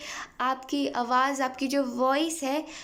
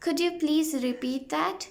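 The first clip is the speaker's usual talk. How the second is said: very slow, clear English; slow model phrase; 3 semitones higher, much slower than usual. Shown as a demonstration. Teacher slowly modelling a repeat request for students. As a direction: drill it slowly. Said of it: "इसका use कर सकते हैं".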